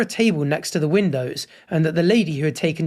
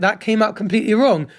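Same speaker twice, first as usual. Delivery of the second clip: higher-pitched acted apology; mock contrite admission, pitched up; imagined apology; 4 semitones higher than usual. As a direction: model an emphatic owning-up. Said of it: "you should have apologized for being like".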